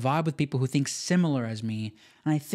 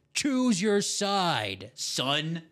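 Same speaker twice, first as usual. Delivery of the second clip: mock ominous; 2 semitones higher, much slower than usual. Dramatic challenge to viewer.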